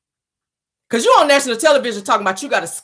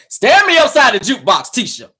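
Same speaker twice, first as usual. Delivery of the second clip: husband asking; 4 semitones higher, 5 dB louder than usual. Retold or imitated. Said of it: "play country music".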